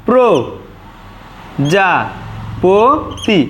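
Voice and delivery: "প্র যা প তি" with a pause after each syllable. Shown as a demonstration. Teacher showing the correct pronunciation, each syllable apart. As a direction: space out pro, ja, po, ti in "প্র যা প তি". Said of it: "এটাই আমাদের শুদ্ধ উচ্চারণ".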